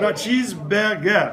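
cheeseburger said the French way, playful; mock French correction; French accent. Shown as a demonstration. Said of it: "say it with a French accent".

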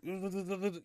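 high stuttering judder noise; imitated car shaking. Driver showing how the speeding car shook, imitated juddering. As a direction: mimic a shuddering car at top speed. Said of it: "the car's starting to shake. I'm like".

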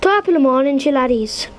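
hammed-up Irish greeting; mock Irish accent. Shown as a demonstration. Player shows off accents to friends, mock Irish accent. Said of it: "give me any accent and I can do it".

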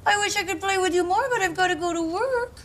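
cooing puppy-talk voice; baby talk to a dog. Acted. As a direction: coo at an adorable dog. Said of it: "I hope I stop talking like this".

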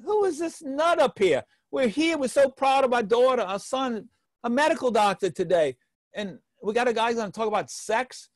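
indignant parents. Retold or imitated. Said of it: "the parents are saying".

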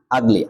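ugly said as "aagli"; initial AA sound. Shown as a demonstration. Teacher picking out the first sound, ugly begun on AA. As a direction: open ugly on a clear "aa". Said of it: "আ উচ্চারণ হয়েছে".

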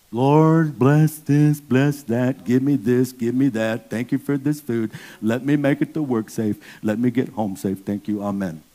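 rote mock prayer. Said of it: "Don't pray like that".

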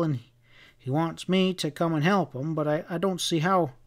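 hint of a rustic, distrustful husband; lightly played fretful cowboy; lightly voiced Sam-type cowhand.

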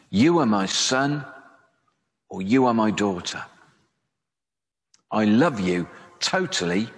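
read slowly. Shown as a demonstration. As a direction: let each verse land slowly, with long pauses. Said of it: "I'll read them slowly".

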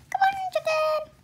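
high, breathy coaxing whisper. Acted. George coaxing the chicken with the spoon, whispered.

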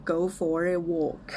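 slow, careful English for repeating; clear pronunciation model. Shown as a demonstration. Teacher asks viewers to practise along, slow and clear. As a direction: model the phrase slowly and clearly. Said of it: "ลองฝึกออกเสียงตามนะคะ".

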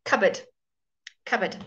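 "cupboard" as CUB-ud, short weak ending; unstressed uh. Shown as a demonstration. Teacher models the unstressed syllable, weak uh. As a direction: reduce the end of "cupboard" to uh. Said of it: "becomes the uh sound".

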